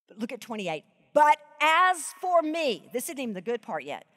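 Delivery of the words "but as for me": slow, stressed "as for me"; savoring the phrase; slow emphasis. Shown as a demonstration. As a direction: draw out each word. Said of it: "he is very purposely repeating".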